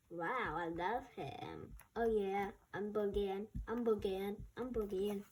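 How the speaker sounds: a laid-back creature grooving along; anteater voice. Acted.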